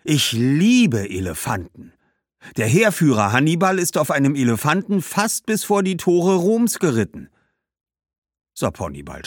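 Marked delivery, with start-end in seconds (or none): 0.0-7.3 hohe, begeisterte Kinderstimme, laut; schwärmt voller Stolz von Elefanten; begeistertes Kind. Acted. (Hannibal erzählt begeistert von Elefanten, hohe Kinderstimme)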